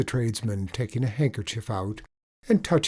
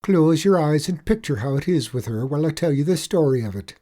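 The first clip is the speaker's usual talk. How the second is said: higher, louder Irish leprechaun lilt; sly leprechaun; 6 semitones higher, 6 dB louder, faster than usual. Acted. Leprechaun coaxing the tradesman into his story, sly higher lilt. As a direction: spin the tale like a wily little leprechaun.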